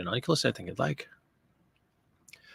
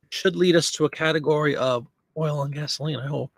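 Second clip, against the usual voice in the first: choking. Real, not acted. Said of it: "Sorry, I'm choking again".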